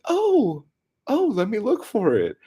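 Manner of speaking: very high, loud voice; high-pitched mock holler; calling down. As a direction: imitate the oblivious neighbor calling out. Neighbor calling down from window.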